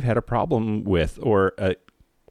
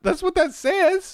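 shocked; slower than usual. Real, not acted. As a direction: say it in sheer shock. Shocked reaction to lyrics.

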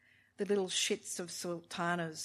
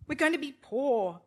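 high, loud despair; despairing cry; 6 semitones higher, 5 dB louder than usual. A narrator's reading. Wife crying out about money, despairing. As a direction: cry out the fear.

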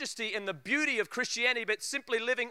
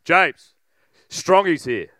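loud bellow down the hall; a dad calling out to his kid, bellowing; 3 semitones lower, 11 dB louder, slower than usual. Retold or imitated. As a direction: boom it down the hallway like dad. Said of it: "his voice bellow down the hallway".

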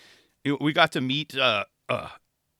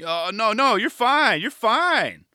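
reassuring hosts; 9 semitones higher, 5 dB louder, slower than usual. Retold or imitated. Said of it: "their reply was like".

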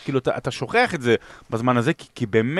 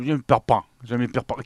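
French accent; much slower than usual. Shown as a demonstration. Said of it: "במבטא צרפתי".

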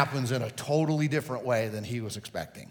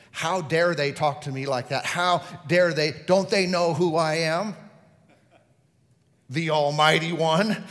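mock indignant pride; 4 dB louder than usual. Mocking a proud inner voice.

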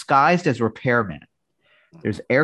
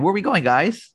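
eager third wheel; 9 semitones higher than usual. Retold or imitated. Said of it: "Felix tries to join Oscar and Monty".

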